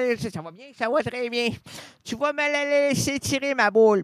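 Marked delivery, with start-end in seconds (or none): 2.0-4.0 high demand ending in a loud ball; a stubborn high old lady voice; insistent demand. Acted. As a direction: push her claim loudly at the end.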